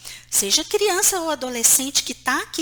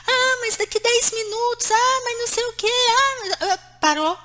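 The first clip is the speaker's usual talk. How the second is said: put-on higher whiny kid stalling; mock the teen who keeps putting it off; whining child; 10 semitones higher, 4 dB louder than usual. Child whining back at mother. (criança choramingando, voz aguda)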